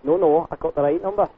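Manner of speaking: put-on Scottish customer with a complaint; Scottish lilt drifting into Australian; Scottish accent. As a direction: do a muddled Scottish accent on a prank call. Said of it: "talking Australian with the Scottish".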